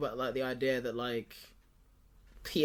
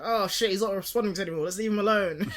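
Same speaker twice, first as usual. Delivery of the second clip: confident; 6 semitones higher, 4 dB louder than usual. Retold or imitated. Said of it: "really confident is like".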